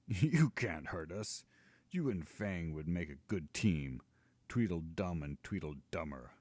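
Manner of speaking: a hint of a gloating giant; mocking giant. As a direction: sneer at the elf like a cocky giant. Giant mocks the elf.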